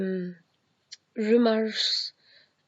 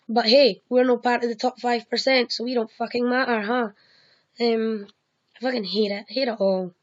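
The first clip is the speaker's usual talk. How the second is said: louder, real angry venting; heated rant; 4 dB louder than usual. Real, not acted. Ranting at the world's injustice, loud and angry. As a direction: spit out the frustration at the world.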